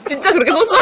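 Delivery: giggling disbelief; laughing. Real, not acted. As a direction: laugh as you ask.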